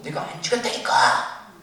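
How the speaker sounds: slow, pounding, loud angry protest; furious yell. Retold or imitated. Prisoner banging the floor, yelling his innocence. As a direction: hammer out each word in rage. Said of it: "너무 소리 지르니까".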